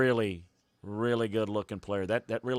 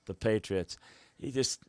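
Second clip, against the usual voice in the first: giddy laugh; 4 dB quieter than usual. Real, not acted. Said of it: "I guess I'm getting giddy".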